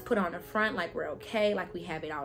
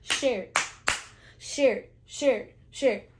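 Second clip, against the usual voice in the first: yelling across the room; 3 semitones higher, 6 dB louder than usual. Acted. Repeated urging viewers to share.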